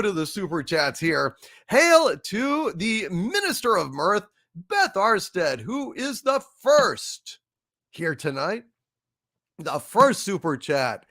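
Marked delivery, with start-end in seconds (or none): 1.7-8.6 slow, high mock-royal announcement; herald's proclamation. Host hailing the Minister of Mirth, slow and grand. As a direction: proclaim her like a court herald. Grand welcome for viewer Beth.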